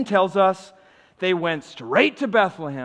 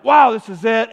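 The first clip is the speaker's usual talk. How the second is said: excited shepherds; 6 semitones higher, 11 dB louder than usual. Retold or imitated. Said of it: "they're like".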